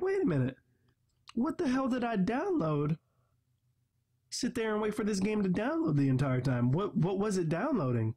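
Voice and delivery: retold disbelief, pitch jumped up high; imitating his own baffled reaction; incredulous disbelief. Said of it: "I'm like".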